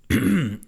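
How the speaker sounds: quick high throat clear. A narrator's reading. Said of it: "I cleared my throat".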